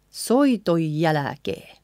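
slow soiton jälkeen said as "soitoj-jälkeen"; N left out, J doubled. Shown as a demonstration. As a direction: drop the N of soiton, lengthen the J. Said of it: "leaving out the N in the end".

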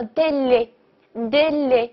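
"D L" very slowly as two closed-é syllables; pronunciation demo. Shown as a demonstration. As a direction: model "D L" slowly, small-mouth vowels. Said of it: "这个叫做".

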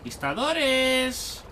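slow stretched alarm call; drawn-out call. Real, not acted. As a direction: call out the enemy slowly. Spotting enemies, stretched call.

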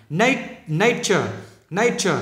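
"nature" with the first syllable lifted, ending falling; nhấn âm đầu. Shown as a demonstration. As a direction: isolate "Nat-", then say the whole word. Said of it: "người ta nhấn chỗ này". ("nature" nhấn vào âm "Nat")

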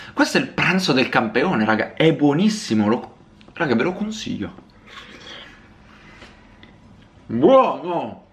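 words muffled by a full mouth. Real, not acted. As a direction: speak while still chewing. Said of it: "Ho parlato di nuovo con la bocca piena".

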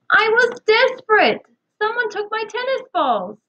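high, pleading confession; desperate plea. A narrator's reading. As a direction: plead that you had no choice. Dave confesses the apple juggling.

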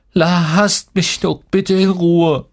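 slow, high, wailing plea; pleading. A narrator's reading. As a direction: beg tearfully, dragging out the words. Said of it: "bettelte ich". (flehend, weinerlich gedehnt)

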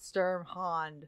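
Sturmhond repeated quietly as STURM-hond; repeating the name. Shown as a demonstration. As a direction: Sturmhond echoed back softly.

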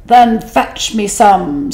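slow, heavy whale command; whale's demand. Acted. Hungry whale ordering the fish, slow. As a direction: draw it out like a big whale. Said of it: "said the whale".

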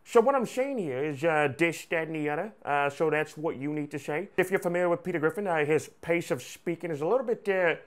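lightly put-on cartoon voice, mouth pulled to one side; a hint of back-of-the-mouth cartoon slur; Peter Griffin. Shown as a demonstration. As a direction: demonstrate the impression with D's for TH. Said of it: "this is how you should sound".

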